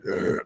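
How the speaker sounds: imitated grumpy "ugh"; angry grunt. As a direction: grumble back in mock irritation. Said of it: "like, you're angry".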